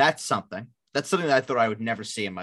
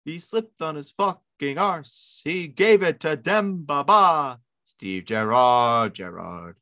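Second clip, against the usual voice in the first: mocking Gerrard; much slower than usual. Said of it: "making fun of my friend and colleague".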